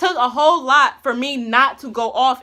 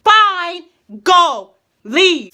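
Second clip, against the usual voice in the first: dismissive; 5 semitones higher, 6 dB louder, much slower than usual. Retold or imitated. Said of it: "His exact words like".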